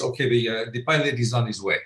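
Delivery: lightly put-on Canadian French accent; mild Canadian French lilt on an airport manager. Airport manager telling waiting passengers, in Canadian French accent. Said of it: "Canadian French accent".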